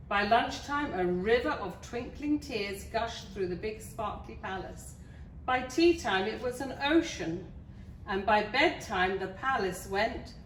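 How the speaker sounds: lively storybook narration; story reading. Acted. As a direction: read it to small children with clear emphasis. Reads a picture book to children.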